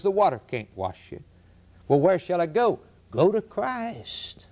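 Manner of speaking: solemn, emphatic pulpit delivery with weighty pauses; earnest preaching. Real, not acted. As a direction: press the warning and appeal on the congregation. Preaches warning and altar appeal.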